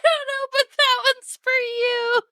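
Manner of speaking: crying with laughter. Real, not acted. Laughing to tears at the gift.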